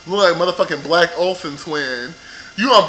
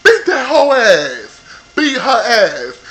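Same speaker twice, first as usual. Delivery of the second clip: loud, higher yell, slowing on the last words; 4 semitones higher, 4 dB louder, slower than usual. Retold or imitated. Viewer yelling at the TV urging Jennifer to fight back. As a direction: urge her on like a fan at the screen. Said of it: "me and my girl was yelling at the T V".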